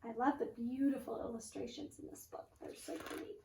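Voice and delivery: soft voiceless aside; whispered aside. Real, not acted. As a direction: breathe it admiringly. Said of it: "reader aside".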